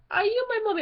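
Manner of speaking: high-pitched eerie child impression; sustained high singsong child voice; creepy gas-mask child. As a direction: ask it like a spooky lost child. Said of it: "he's just like".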